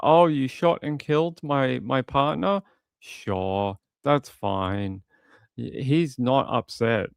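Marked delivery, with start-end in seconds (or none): 0.0-5.0 mock unconcerned. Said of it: "He's just like".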